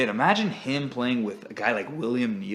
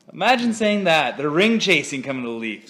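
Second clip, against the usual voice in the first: incredulous; 5 semitones higher, 9 dB louder than usual. Real, not acted. Mocking disbelief at Leafs.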